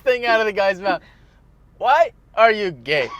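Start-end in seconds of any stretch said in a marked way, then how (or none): 1.8-3.1 mock shouted question. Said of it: "I love your delivery of the, "Why?".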